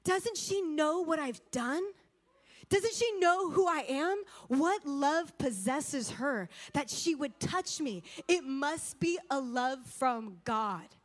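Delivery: slow, softened, a touch of tears; lightly voiced broken prisoner, slow and hushed; mild retold weeping. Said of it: "he starts weeping".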